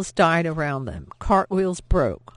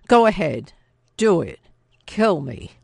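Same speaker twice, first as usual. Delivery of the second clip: defiant shout; 7 dB louder than usual. Acted. Soldier defies a knife.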